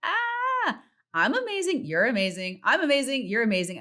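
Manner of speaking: squealing high, bubbly affirmations; high vibration gush. Retold or imitated. Trading compliments in a high vibration, squealy high. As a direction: gush like you're glowing. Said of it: "being in that high vibration".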